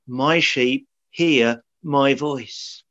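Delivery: slow and deliberate, a pause around HEAR; clear, emphatic. Retold or imitated. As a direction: set out "My sheep hear my voice" word by word, very slowly. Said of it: "the words are so clear, so emphatic".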